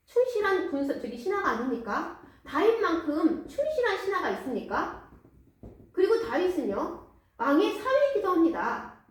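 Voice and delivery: a high, pleading protest of innocence; wronged pleading. Acted. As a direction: plead your innocence to the king. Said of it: "아히멜렉이 억울해합니다".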